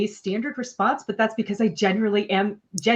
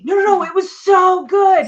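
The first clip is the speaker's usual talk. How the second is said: high, loud, hammed-up insistence; over-intense praise; 11 semitones higher, 9 dB louder than usual. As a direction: gush at them far too intensely. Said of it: "You're really intense".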